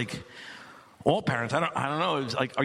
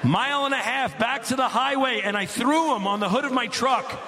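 excited shout; 6 semitones higher than usual. Acted. Climax of wild story.

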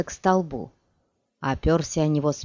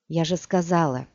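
cold. Acted. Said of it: "холодно бросила Цири".

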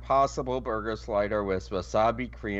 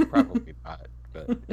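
high whiny; 13 semitones higher than usual. Real, not acted. Still upset, laughing.

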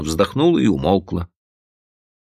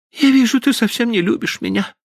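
put-on high, bitter girlish cry; bitter reproach. Stephanie bitterly reproaching Frank, high girlish voice. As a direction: throw the reproach at him in a high voice. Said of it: "с горьким укором воскликнула Стефани".

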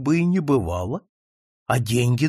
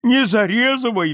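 pleading; 5 semitones higher, 4 dB louder than usual. A narrator's reading. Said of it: "взмолился вдруг Ферапонтов".

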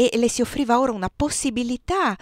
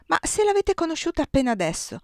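trembling with agitation; 8 semitones higher than usual. A narrator's reading. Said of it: "tremante per l'agitazione".

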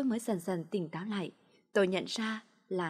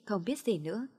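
usual speaking voice

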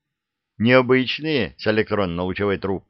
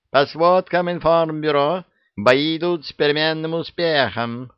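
higher, formal wartime news read; hammed-up wartime radio announcer; 7 semitones higher than usual. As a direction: announce it like an old war bulletin. Yaga reads wrong radio script.

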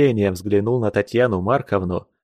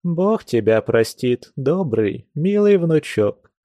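tender; 4 semitones higher, slower than usual. Acted. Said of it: "в умилении обняла его".

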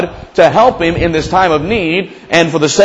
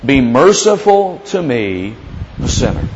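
humble plea; 4 semitones lower, slower than usual. Retold or imitated. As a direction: beg it gently, lowly. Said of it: "The same one the publican prayed".

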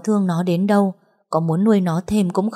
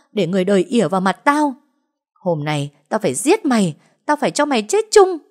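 hissing with hatred; 3 semitones higher, 3 dB louder than usual. Acted. Ánh threatening Ngân with scissors, building to a hateful scream. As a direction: spit hatred at her, rising to a threat to kill. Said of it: "rít lên hận thù".

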